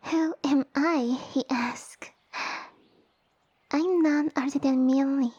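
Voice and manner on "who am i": slow, affronted echo of a question; incredulous echo. Acted. Noble repeating a human's ignorant question, incredulous. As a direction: draw it out in haughty disbelief.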